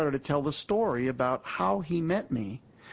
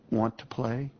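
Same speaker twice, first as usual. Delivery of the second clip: gentle invitation; 3 semitones lower, slower than usual. Retold or imitated. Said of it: "three most important words".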